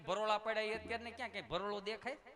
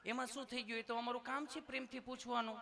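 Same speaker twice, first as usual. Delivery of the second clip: sweetly asking nurse; 5 semitones higher than usual. Retold or imitated. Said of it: "પ્રેમથી પૂછો છો".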